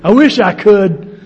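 ordinary delivery

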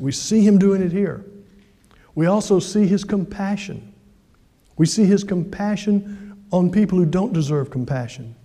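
normal talking voice

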